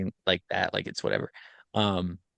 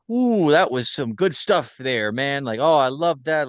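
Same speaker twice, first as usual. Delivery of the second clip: imitating a thrilled detective, a bit higher; jazzed up; 4 semitones higher, 3 dB louder than usual. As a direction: mildly gush over the clever game. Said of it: "He's, like, jazzed up".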